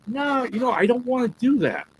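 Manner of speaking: hammed-up self refusing; retold refusal. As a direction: squeak out a playful no. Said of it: "And I'm like".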